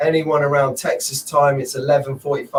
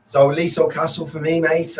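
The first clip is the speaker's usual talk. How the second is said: mock Scouse twang. Shown as a demonstration. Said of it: "I'll be talking like that when I get back".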